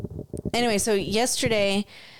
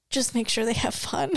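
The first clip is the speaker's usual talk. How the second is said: dramatic request; 2 semitones higher than usual. Retold or imitated. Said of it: "It was so dramatic".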